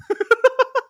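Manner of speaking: real high-pitched laugh burst. Real, not acted. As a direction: let out a bright squealing laugh. Host laughing at story.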